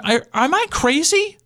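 retold screaming. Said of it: "I'm screaming".

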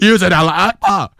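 high-pitched, indignant imitation of a woman; mock-outraged female accuser; accusing woman. Woman accuses him, acted out.

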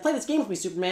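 a hint of a mischievous fifth-dimension imp; teasing imp voice. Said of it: "but he's like".

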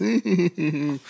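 high mock titter; fake friendly giggle. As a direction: imitate a two-faced smiler's giggle. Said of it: "They're smiling in your face".

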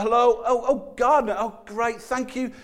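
mock flustered politeness, keep the visitor away; a lightly hammed-up busy churchgoer; flustered busy host. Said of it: "he says".

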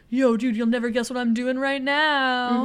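loud mock bro phone greeting; mock bragging. Ryan boasting to his friend on the phone, mock bragging. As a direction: play a guy bragging down the phone.

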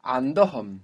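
"Andohom" with DO stressed; stress on middle syllable. Shown as a demonstration. Teacher models the accent for the student, stressing DO in Andohom. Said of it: "where's the accent".

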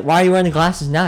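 mock foreign-accent question; Pasternak. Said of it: "accent impression".

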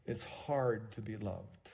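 slow and soft, weighing each word. Shown as a demonstration. Pastor telling the congregation, slow and soft. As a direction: let it sink in slowly.

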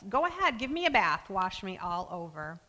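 impulsive burst. Retold or imitated. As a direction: blurt it out with sudden eagerness. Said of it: "Peter impulsively says".

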